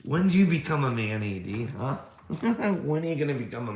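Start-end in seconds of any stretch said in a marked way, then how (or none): none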